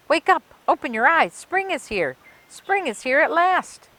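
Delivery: loud, high excited shouting. Acted. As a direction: shout the news, bouncing with joy. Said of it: "jumped on the bed and shouted".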